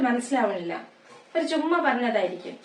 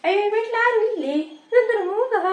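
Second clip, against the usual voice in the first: calling out; 6 semitones higher than usual. Acted. Calling at a silent house.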